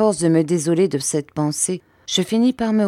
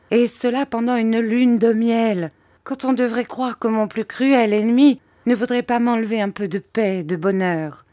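peevish mother; 6 semitones higher than usual. Acted. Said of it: "s'écria ma mère".

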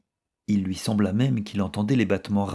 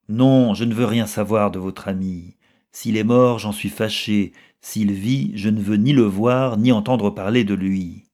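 agitated; 5 dB louder than usual. Acted. Milady refuses, agitated, to hear more.

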